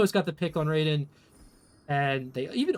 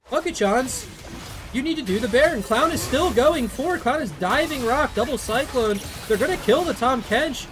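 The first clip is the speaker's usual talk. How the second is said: excited play-by-play; 4 semitones higher than usual. Real, not acted. Urgent call to the team.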